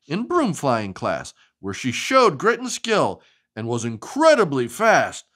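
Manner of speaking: lively, sing-song storybook reading; animated picture-book narration; reading to children. Acted. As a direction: read it like bedtime story time for a child.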